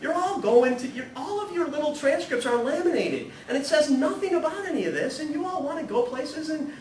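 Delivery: high, loud, laughing classroom harangue; exasperated teacher shout. Retold or imitated. Teacher challenging bored students, loud and high. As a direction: rouse the sleepy sophomores, half laughing. Priest retelling pushing his students.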